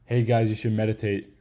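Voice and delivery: reading a script word for word; stiff, wooden YouTuber read. Retold or imitated. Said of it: "those people just read a sentence".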